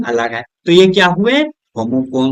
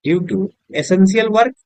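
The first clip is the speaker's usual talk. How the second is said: each word said very slowly for copying; slow dictation; 2 semitones higher, much slower than usual. Shown as a demonstration. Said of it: "हम लिखते हैं due to". (धीरे-धीरे बोलकर लिखवाना)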